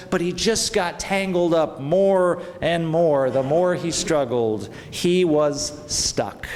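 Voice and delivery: put-on lively, expressive read-aloud for children; animated children's story narration; storytelling voice. A narrator's reading. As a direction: tell it like a bedtime story to kids gathered round. Reads a children's story in church.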